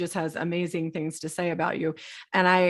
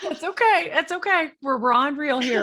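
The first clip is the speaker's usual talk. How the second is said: high, soothing reassurance; quick, kindly it's-all-right in a raised pitch; reassuring; 7 semitones higher than usual. Real, not acted. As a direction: comfort someone who is choking up. Reassures her tearful guest.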